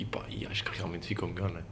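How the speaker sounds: hushed aside, almost unvoiced; whispering. Real, not acted. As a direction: drop to a whisper mid-thought.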